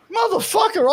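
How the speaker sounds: high yelled curse, laughing at himself; mock outraged shout. Dad buried by his own kid, yelling. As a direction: shout it, half joking.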